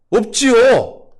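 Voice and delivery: high, loud, drawn-out answer; emphatic pastor. Acted. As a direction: cry out the answer, stretched and high.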